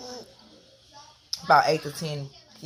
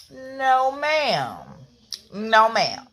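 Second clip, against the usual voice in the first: scolding; 5 semitones higher, much slower than usual. Retold or imitated. Scolding her kids.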